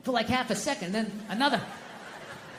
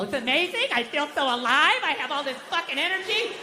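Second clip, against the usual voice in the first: higher, gushing cheerful sober person; mocking happy sober people; 4 semitones higher than usual. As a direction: parody a smug, overjoyed sober guy. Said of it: "Fucking hate these happy, sober people".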